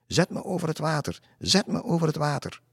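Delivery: high, creepy little voice; akelig stemmetje. A narrator's reading. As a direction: mimic the black madame's eerie high call. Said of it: "Hij herhaalde met een akelig stemmetje". (hoog, akelig roepend stemmetje)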